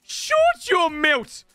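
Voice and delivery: high, slow Irish accent outburst; hammed-up Irish accent. Shown as a demonstration. Impressionist taking a request for Irish, hammed-up Irish accent. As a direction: draw it out in a put-on Irish voice. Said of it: "Please do Irish".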